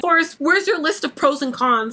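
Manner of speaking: imitating a mother babying her grown son; mildly condescending mock-mother voice. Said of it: "starts to baby Forrest as if he's a child".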